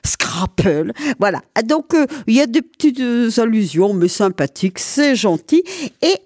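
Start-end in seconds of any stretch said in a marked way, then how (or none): 0.0-0.9 "Scrapple" with a hard p instead of b; Alsatian pronunciation. Shown as a demonstration. Host giving the Alsatian way to say Scrabble, Alsatian pronunciation. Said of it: "On va jouer au Scrabble en alsacien".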